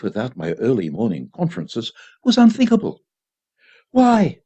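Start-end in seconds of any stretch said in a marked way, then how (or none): 3.9-4.4 sharp high demanding why; severe. A narrator's reading. Child demanding a reason from his mother, severely. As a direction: question her sternly like a judge. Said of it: "I asked severely".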